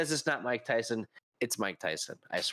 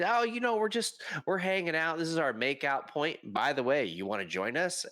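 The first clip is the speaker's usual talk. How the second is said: suggestive invitation; 6 semitones higher than usual. Retold or imitated. Couple at makeout point to a passing conductor, suggestive invitation. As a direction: imitate a coy, offhand proposition. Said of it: "you can hear the tone".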